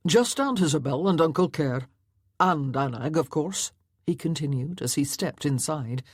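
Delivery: a lightly voiced Highland laird, steady; laird's voice. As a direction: speak as the stern father offering the outing. Gruff laird speaking at the door.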